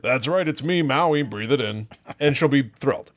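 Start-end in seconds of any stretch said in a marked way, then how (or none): 0.0-1.9 mildly boastful hero voice, barely changed; lightly voiced proud Maui; Maui impression. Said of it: "talk like The Rock's character, Maui".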